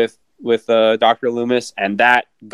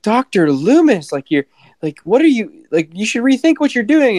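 pleading nurse, pitched way up, hammed; imitating the nurse; 11 semitones higher than usual. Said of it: "she kept saying".

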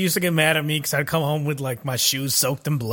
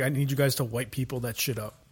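softer, half-hearted delivery of a movie line; zero conviction; 3 semitones lower, 6 dB quieter than usual. Retold or imitated. Host mocking an actor's cringey movie line, no conviction. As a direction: say it as if you hate the line. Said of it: "zero conviction in what he was saying".

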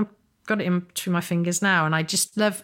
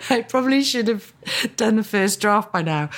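mock guilty, higher and louder; 4 semitones higher, 4 dB louder than usual. Shown as a demonstration. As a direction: play up fake guilt. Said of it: "I'm jesting".

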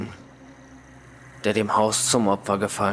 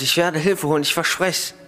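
shouted while running; 6 semitones higher than usual. A narrator's reading. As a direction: call back a promise while running. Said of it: "schreite während des Laufens".

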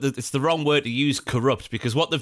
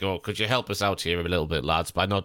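Premier League voiced; 7 semitones lower than usual. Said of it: "the Premier League were like".

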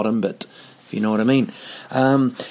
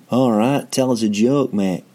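light mock Mancunian accent, slightly raised; imitating a singer. A singer ribbing a comedian for a joke, lightly mocked Mancunian voice. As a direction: chirp it in a put-on Manchester accent. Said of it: "That's me doing that voice".

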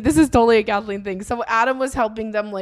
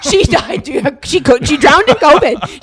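laughing; 3 semitones higher, 7 dB louder than usual. Real, not acted. Joking banter, laughing loudly.

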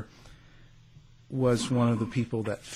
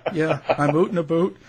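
Canadian oot and a boot, rounded oo vowels; mock Canadian out and about; Canadian accent; 5 semitones higher, 5 dB louder than usual. Shown as a demonstration. Host hams up his Canadian accent, Canadian oot and boot. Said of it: "my Canadian accent that comes out".

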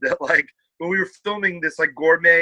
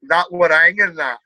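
attempted northern accent; 4 dB louder than usual. Shown as a demonstration. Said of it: "let me see if my northern's good".

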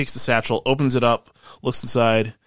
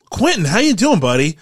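hearty greeting; 8 semitones higher, 8 dB louder than usual. Acted. Game master voices a hearty greeting.

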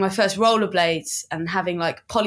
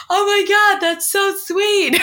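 high-pitched mock gush, loud then drawn out; gushing passer-by; 12 semitones higher, 5 dB louder, slower than usual. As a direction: imitate an onlooker melting at something adorable. Imitating a runner moved by the moment.

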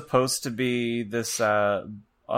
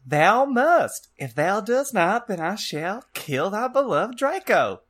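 high, loud, wailing dark lord; hammed-up high-pitched villain; yelling villain; 9 semitones higher, 4 dB louder, slower than usual. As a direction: yell the archaic threat theatrically. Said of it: "he yelled".

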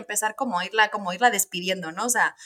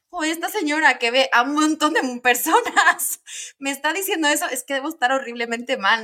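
startled alarm; 5 semitones higher than usual. Retold or imitated. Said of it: "yo me asusté".

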